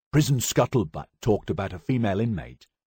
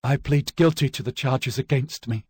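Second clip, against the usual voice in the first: a bit louder, forcing the words out; 7 semitones higher, 3 dB louder than usual. Acted. Accused woman pleading guilty, slightly louder. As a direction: raise the voice just enough to be heard. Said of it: "in a louder voice".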